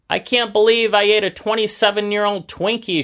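high excited shout of disbelief. Acted. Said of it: "shouted David".

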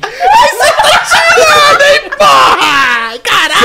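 high laughing outcry; laughing shout. Real, not acted. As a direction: yell through the laughter. Teasing exclaim, laughing shout.

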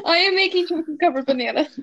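eating while talking; talking through a mouthful; mouth full. Real, not acted. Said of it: "Are you eating?".

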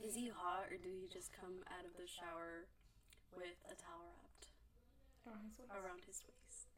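teasing whisper. Acted. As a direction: whisper it like a juicy secret.

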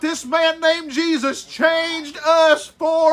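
rising fervent sermon build; fervent preacher lifting the congregation; preaching. Acted. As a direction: preach it with mounting conviction.

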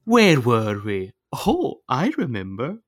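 slow, drawn-out Shrek moment; imitated movie line. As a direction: romantic recollection, hammed up. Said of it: "And then he was like".

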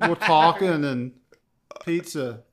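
slow, put-on New York accent. Performing a New Yorker on request, New York accent. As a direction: lean on New York vowels in talking. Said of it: "best New York accent".

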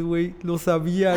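the brother starts to realise he was right; excited. Retold or imitated. Brother hearing the news, first lo sabía, lively. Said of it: "Así todo emocionado".

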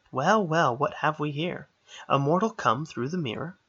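playful, knowing fairy; sly fairy voice. Acted. Fairy greets mortal.

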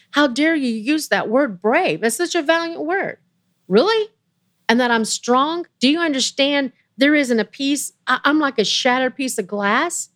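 pained indignation. Retold or imitated. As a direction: let the hurt pour out and build, pitch climbing at Really. Retold hurt outburst at praise.

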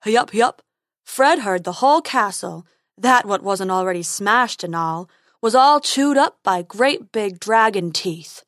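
loud, dopey unicorn voice; silly unicorn. Acted. Unicorn describes chewed castle to Dentina, loud silly voice. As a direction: confirm the gossip as a silly creature.

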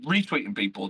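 usual speaking voice

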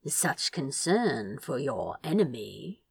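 a low, dry tease; teasing. Acted. Masked guest teases the worried prince, soft mock. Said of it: "he teased".

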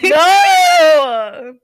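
loud, sharp refusal; shout. Real, not acted. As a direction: yell no in protest. Refusing to say it on mic.

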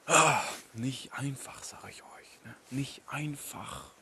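shivering, whispering from the cold. Real, not acted. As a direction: shiver through the words. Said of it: "Ich zitter hier nur noch".

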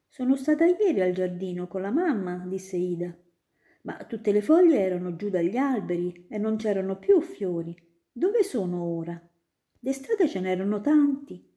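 lightly voiced curious girl, a little quick; a child reporting, puzzled; little girl telling the student about the garden; little Ida. Ida answers.

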